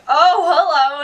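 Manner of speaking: mildly hammed-up starstruck greeting; retold surprised greeting. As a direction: replay a pleasantly startled hello. Greeting passing actor, retold.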